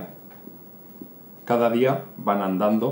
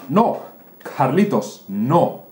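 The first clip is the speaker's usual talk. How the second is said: higher, louder warning no; sharp warning; 3 semitones higher, 4 dB louder than usual. Acted. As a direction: snap a quick stop at the child. Mother stops gum eating. (la madre advierte, más alto y fuerte)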